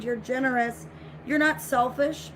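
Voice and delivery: usual speaking voice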